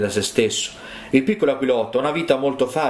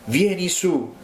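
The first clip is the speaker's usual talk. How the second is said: higher, slow calling cry from above; mother eagle calling out; 5 semitones higher than usual. Retold or imitated. The mother eagle calls down to her chick, a slow high cry. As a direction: call him up, drawn out. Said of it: "ella gli gridò di nuovo".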